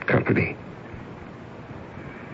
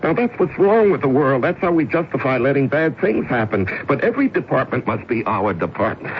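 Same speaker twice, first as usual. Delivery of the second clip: urgent pleading, pushing higher; desperate pleading; 4 semitones higher than usual. Acted. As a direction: beg her not to brush you off.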